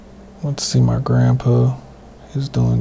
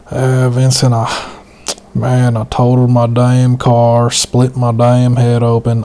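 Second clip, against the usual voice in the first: raised, slower mock grandpa; loud grandpa quote; 4 dB louder, slower than usual. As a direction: belt it out like an old man on the phone. Grandpa calling from hospital.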